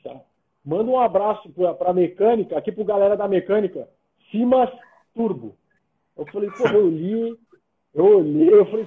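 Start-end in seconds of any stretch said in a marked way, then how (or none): 0.6-5.5 staccato, palavra por palavra; pausadamente. Shown as a demonstration. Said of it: "eu vou falar pausadamente". (bem pausado, sílaba a sílaba)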